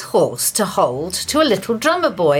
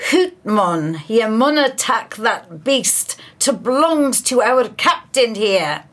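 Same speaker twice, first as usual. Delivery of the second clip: put-on light Scottish accent, dying soldier; a hint of a Scots Highlander accent. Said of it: "I do apologise for my Scottish accent".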